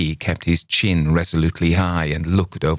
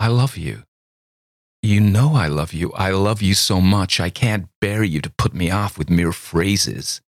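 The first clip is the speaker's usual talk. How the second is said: imploring; 3 semitones higher than usual. A narrator's reading. Girl declares love to Campbell, imploring. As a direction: beg him to stop and listen. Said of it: "with an imploring".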